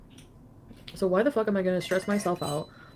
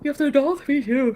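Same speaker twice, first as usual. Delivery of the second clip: loud; 6 semitones higher, 8 dB louder than usual. Real, not acted. Streamer reacting, voice raised.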